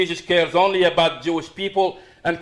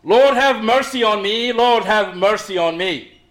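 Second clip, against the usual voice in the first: louder, pleading cry that eases off on the repeat; a raised plea for mercy, first louder then settling; 5 semitones higher, 4 dB louder than usual. Retold or imitated. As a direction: call out to the Lord for mercy, raised voice. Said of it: "continually cries out to him even louder".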